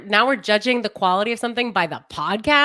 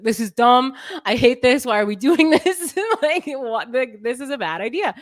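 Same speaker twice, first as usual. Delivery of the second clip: mock exasperated rant; 3 semitones higher, 4 dB louder than usual. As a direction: imitate Jeff Goldblum fed up with the dinosaur plan. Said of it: "he's like".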